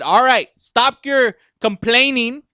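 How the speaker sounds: slow, measured telling-off; retold firm announcement. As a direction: lay it down slowly to the complainers. Voicing filmmakers answering upset fans.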